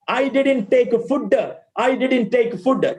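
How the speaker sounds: "food" short, with an added "uh" after the d; Malayali pronunciation. Shown as a demonstration. Teacher demonstrating a common error, Malayali pronunciation. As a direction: end "food" on a short "duh". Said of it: "Wrong way. This is the wrong way".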